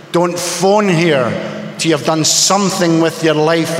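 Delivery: slow, hurt words from a mother; pained mother. Retold or imitated. Mother on the phone disowning her son, slow and pained. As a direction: let her pain slow every phrase down, a touch mournful. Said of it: "by the inflection in my mother's voice, the pain".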